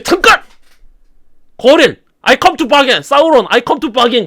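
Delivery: broken captive begging to deal; desperate plea. Acted. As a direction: cry out to stop the torture. Gorlim begs to bargain.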